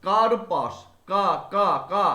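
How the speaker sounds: কার্পাস loud, কা punched; stressed first syllable. Shown as a demonstration. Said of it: "ভালো করে বোঝো তোমরা". (কা-তে জোর দিয়ে কার্পাস)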